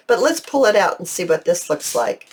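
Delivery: ordinary delivery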